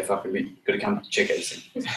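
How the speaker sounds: hushed, breathy aside of a pitch; unvoiced mock pitch line; whispered pitch. Shown as a demonstration. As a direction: whisper it like a secret invite. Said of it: "And say".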